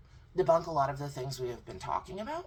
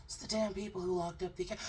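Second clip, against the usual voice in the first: mock confused guest; 5 semitones higher, 4 dB louder than usual. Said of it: "He popped off".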